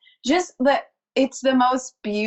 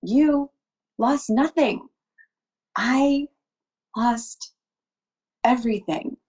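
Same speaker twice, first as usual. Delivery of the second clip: Rayanne impression; 3 semitones higher, slower than usual. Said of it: "It's not that good of an impression".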